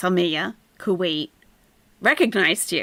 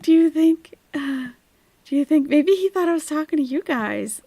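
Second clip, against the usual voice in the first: high, put-on wondering voice; mocking the streamer; 8 semitones higher, 3 dB louder than usual. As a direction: mimic her in a raised pitch. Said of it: "She's like".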